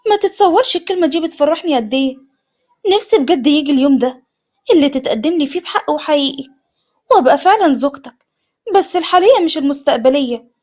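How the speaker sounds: glowing with excitement; delighted. Acted. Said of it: "أسماء بفرحة".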